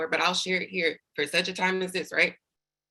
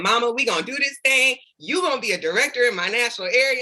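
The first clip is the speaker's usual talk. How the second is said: excited promise to mama; 5 semitones higher, faster than usual. Retold or imitated. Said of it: "I was like".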